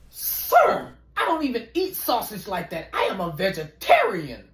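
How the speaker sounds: clutch your pearls, scandalised; offended prissy lady. Acted. Answering the stranger's crude question, scandalised and prim.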